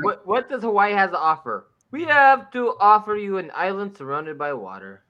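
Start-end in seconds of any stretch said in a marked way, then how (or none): 1.9-5.0 hammed-up fake Hawaiian accent; unconvincing mock Hawaiian accent; bad Hawaiian accent. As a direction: attempt a Hawaiian accent, badly. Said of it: "What is the accent".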